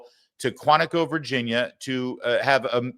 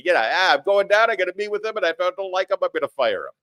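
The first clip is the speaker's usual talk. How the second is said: Trump impression; 8 semitones higher, faster than usual. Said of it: "as he".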